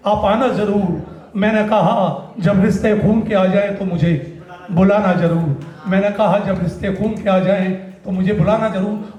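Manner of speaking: measured spoken-word verse; stage poet's cadence; poetry recitation. Acted. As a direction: deliver each couplet to the audience. Recites his poem Makaan.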